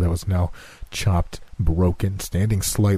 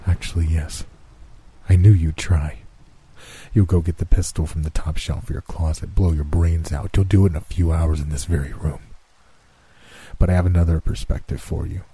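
lower, measured voice of Death; Death's voice; 3 semitones lower than usual. Acted. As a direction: speak as calm, cold Death. Death reveals Calvin's plan.

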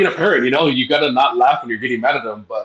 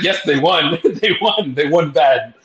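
laughing report; 4 semitones higher, slower than usual. Retold or imitated. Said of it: "And she's like".

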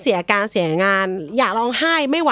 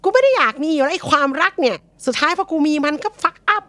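mock bitter; 6 semitones higher than usual. Voicing the avoidant senior.

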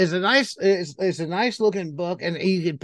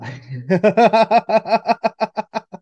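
long burst of delighted laughter; big appreciative laugh; hearty laugh; 6 dB louder than usual. Real, not acted. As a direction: laugh out loud, loud at first then trailing. Delighted at brilliant cover art.

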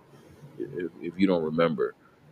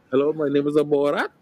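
higher-pitched mock Kazakh accent; Borat accent; 8 semitones higher than usual. Podcast guest revives an old school party trick, mock Kazakh accent. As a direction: put on a hammy, high Kazakh accent. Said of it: "I used to do the accent".

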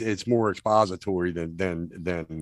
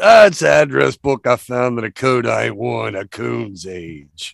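quoted film line; 4 semitones higher, 8 dB louder than usual. Retold or imitated. Co-host acting out the address book line, hammed-up quote. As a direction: act out the movie line, pushed loud then dropping. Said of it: "and then we get the line".

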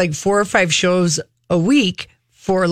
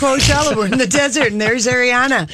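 imitating giddy festival fans; higher-pitched, half-hearted cheer of a happy crowd; mock excited crowd; 5 semitones higher than usual. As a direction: play the easily pleased concertgoer. Voicing the clapping Coachella crowd.

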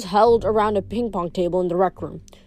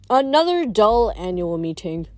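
muttering. Acted. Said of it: "Dionysus muttered".

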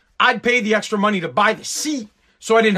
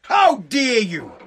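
slow, dropped to normal pitch and level; mock outrage, pulled back; much slower than usual. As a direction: let the outrage sink, still drawn out.

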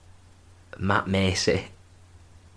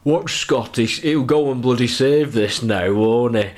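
loud, higher-pitched imitation of a home fan; raised-voice impression of a terrace commentator; fan on video; 5 semitones higher, 6 dB louder than usual. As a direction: mimic an excited fan calling out over his own video. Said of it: "this guy just goes on, on the video".

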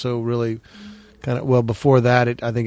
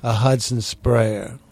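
slow, savoured Southern accent on Hudson sprayer; lingering Southern accent, slowed down; slower than usual. Real, not acted. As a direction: say it like a Tennessee Williams Southerner. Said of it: "I like the way you say Hudson sprayer".

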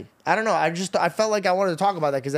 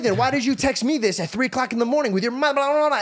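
mocking argumentative quote; 7 semitones higher than usual. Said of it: "retold heated Twitter argument".

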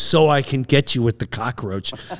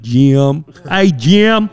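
put-on deep, thick Kentucky accent greeting; 5 dB louder, much slower than usual. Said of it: "I now had this deep, thick Kentucky accent".

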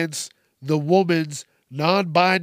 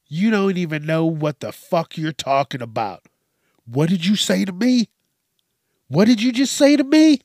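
imitating a scream; 2 semitones higher, 5 dB louder than usual. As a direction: start flat, then yell the last question. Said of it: "started fucking screaming in this woman's face".

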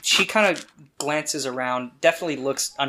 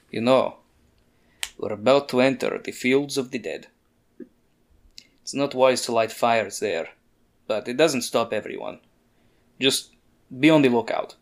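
lightly voiced grave guide. Gilderoy warns Annie about the fields of the dead, grave guide. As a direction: caution them gravely, in a lightly acted voice.

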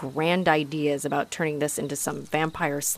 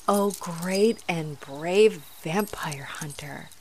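slow, mock-grand flattery; mock grandeur; much slower than usual. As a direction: drag it out in fake awe.

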